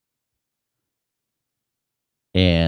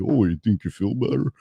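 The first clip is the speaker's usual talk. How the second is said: a touch of a mocking bully; taunting virus; 4 semitones higher than usual. The virus taunts the sick man, mild mock voice. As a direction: tease him lightly, higher.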